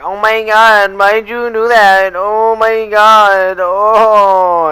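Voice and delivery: put-on high, loud gasping girl voice, dragged out; mocking shocked girls. Schoolgirls crowding him at lunch, high shocked squeal. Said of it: "these bitches were walking up to me".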